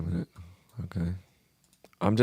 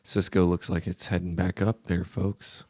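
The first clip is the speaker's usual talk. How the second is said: slow and calm; 4 semitones lower, 4 dB quieter than usual. Shown as a demonstration. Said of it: "I'll just talk really slow like this and real calm".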